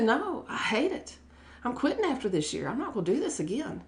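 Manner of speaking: half-laughing frank admission; blunt retold confession. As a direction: blurt it out, frustrated and candid. Retelling blunt answer to admired speaker.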